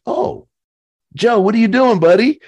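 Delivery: high, loud delighted hello; calling a buddy on the phone, hammed-up cheerful; cheery greeting. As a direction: greet an old friend with glee. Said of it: "So I was like".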